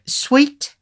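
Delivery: very high, coy lady; coy matron. Acted. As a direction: flirt sweetly. Matron offers sugar coyly.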